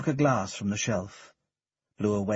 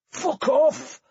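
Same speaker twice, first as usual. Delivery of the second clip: put-on high, loud drunken spat curse; 6 dB louder than usual. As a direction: spit it out at him. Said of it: "spat the tramp".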